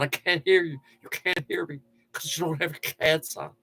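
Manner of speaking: stupid buddy voice. Pretend. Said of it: "that's a stupid voice I do".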